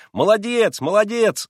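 high, loud bravo cries; cheering shouts. A narrator's reading. Boys applauding their friend, loud high cheers. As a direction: shout praise like a boys' chorus. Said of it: "закричали все мальчики".

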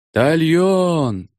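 high yelled order; yelled command. A narrator's reading. Battalion commanders yelling to their men, a high yell. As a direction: bellow it across the parade ground. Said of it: "заорали двенадцать батальонных командиров".

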